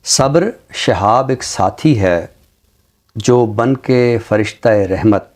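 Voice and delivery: slow, measured poetry recital with lines repeated; ghazal recitation. Acted. Guest recites a ghazal for the host, slow recital. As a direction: recite each couplet slowly, savouring it.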